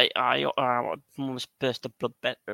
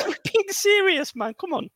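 high, loud, giggling insistence; can't stop laughing while claiming seriousness; cracking up; laughing protest; 4 dB louder than usual. Real, not acted. Laughing denial of not being serious.

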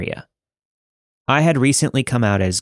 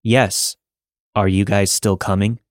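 flat monotone voice. Acted. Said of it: "replied the flat, expressionless voice".

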